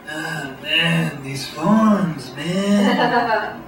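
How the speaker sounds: lightly voiced strung-out junkie; slurred, dazed addict whining; junkie impression. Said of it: "I'm junkie impression".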